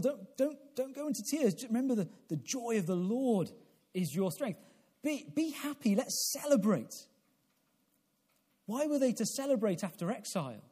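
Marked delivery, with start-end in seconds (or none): 0.0-6.9 cheerful encouragement. Retold or imitated. Voices the leaders' encouragement.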